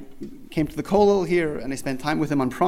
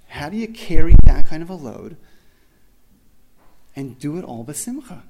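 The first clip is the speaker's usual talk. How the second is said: emphatic marvel; 14 dB louder than usual. Real, not acted. Amazed at rabbi's burden.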